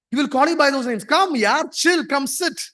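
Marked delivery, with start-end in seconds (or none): 1.0-2.6 over-friendly HR. Retold or imitated. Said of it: "he will try to be over-friendly".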